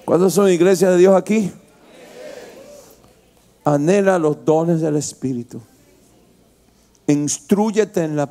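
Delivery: rising sermon cadence, lifted and firm; preaching. Acted. Pastor preaching to the congregation, fervent sermon voice. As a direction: preach it out to the church.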